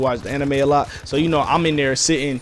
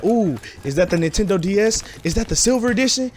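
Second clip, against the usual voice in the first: put-on higher, breathy-free gushing girl voice, lightly done; impressed girls; 3 semitones higher than usual. Girls at school gushing over his DS, lightly mimicked admiring voice. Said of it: "They was like".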